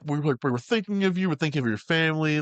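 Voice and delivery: high, gently reassuring imitation; sugar-nice, lifted pitch, lightly acted; nicest way possible. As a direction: imitate a very considerate caller. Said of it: "Like, the nicest way possible".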